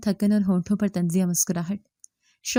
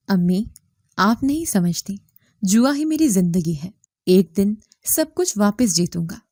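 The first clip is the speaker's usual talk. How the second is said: loud defiant. Acted. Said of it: "وہ تیز آواز میں ہنسا".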